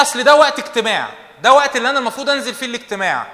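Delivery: hammed-up excuse; mock excuse. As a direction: imitate a lazy excuse-maker. Mock excuse of lazy believer.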